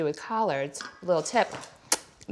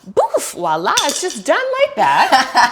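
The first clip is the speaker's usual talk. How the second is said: laughing; 5 semitones higher, 10 dB louder, slower than usual. Real, not acted. Cooking-show magic flourish.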